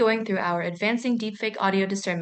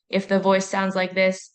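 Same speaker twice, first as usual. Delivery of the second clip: flat, slower demo of a robotic pitch; unnatural monotone; slower than usual. Shown as a demonstration. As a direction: say "sounds like this" on one level note, deliberately. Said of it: "it will sound unnaturally flat".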